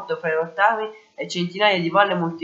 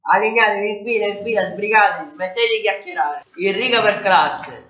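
mildly raised, brisk orders to line up; shouting; 3 semitones higher than usual. Acted. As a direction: call the class into line. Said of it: "Il vice direttore gridava". (un vice direttore che grida, appena più forte)

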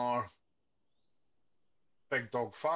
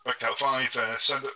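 radio voice; 9 dB louder than usual. Acted. Radio reply in training.

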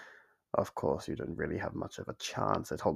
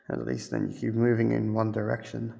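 normal talking voice

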